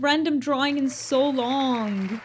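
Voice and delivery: high, loud excited cheer; real excitement, voice up and loud; thrilled. Real, not acted. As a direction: celebrate the long-awaited drawing. Random drawing finally comes up.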